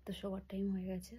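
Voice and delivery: secret hushed whisper. Real, not acted. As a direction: whisper so dad stays asleep. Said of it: "আমরা চুরি করে কথা বলছি".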